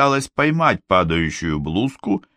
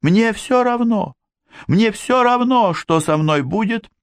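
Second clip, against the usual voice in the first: high, tearful, desperate; desperate girl; 13 semitones higher than usual. A narrator's reading. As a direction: cry out that nothing matters.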